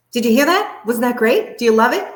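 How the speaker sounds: high, loud, rising questions; lively vocal variation. Shown as a demonstration. Coach showing how to grab a dozing audience, high excited burst. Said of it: "once in a while, you wanna kinda go".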